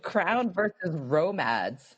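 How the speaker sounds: slow imitation of posh vowels; mock the host's posh pronunciation, drawing it out; mimicked posh accent. Guest teasing host over misheard question, slow mock-posh accent. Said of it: "that's just posh".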